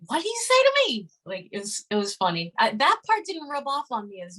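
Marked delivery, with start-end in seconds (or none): 0.1-1.1 fast, much higher New Jersey challenge; mock New Jersey "what do you say to me?"; New Jersey accent. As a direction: toss it off quick like a Jersey tough guy. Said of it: "he had a real thick, like, New Jersey, New York accent".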